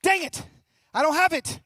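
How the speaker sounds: high, loud mock exasperation; a hammed-up frustrated cry; mock dismay. Speaker kicks himself over the missing money, loud mock dismay. Disappointed, retold inner voice.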